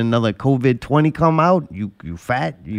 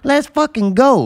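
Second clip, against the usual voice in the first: hyped-up shout; 11 semitones higher than usual. Real, not acted. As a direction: pump the room up, cheering. Hype call, much higher.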